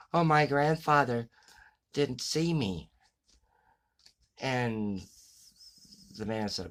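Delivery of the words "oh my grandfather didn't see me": higher, louder mock little-boy voice; little boy crying. Man asks crying boy on curb, hammed-up little boy voice. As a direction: play the weepy kid in the joke.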